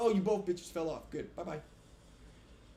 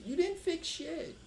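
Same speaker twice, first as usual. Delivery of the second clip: much higher and slow, furious; angry shout; 12 semitones higher, slower than usual. Real, not acted. Ranting at the developers, a slow furious shout. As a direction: spit it back at them.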